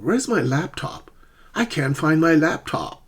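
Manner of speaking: "laptop" stressed on LAP; first-syllable stress. Shown as a demonstration. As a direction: hit LAP, let top fall back in "laptop". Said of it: "Always stress the first syllable".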